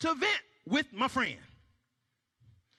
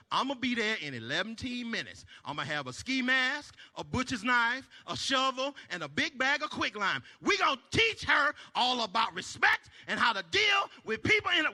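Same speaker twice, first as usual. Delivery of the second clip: mock menace. Threatening revenge plan.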